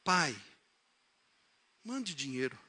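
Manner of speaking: soft, humble acted plea; son's gentle intonation. Mother reading the telegram as her son meant it, gently pleading. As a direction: trail down into a quiet request. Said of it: "usando a entonação do filho".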